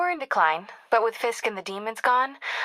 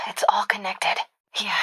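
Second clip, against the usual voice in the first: whisper. Acted. Whispered realization.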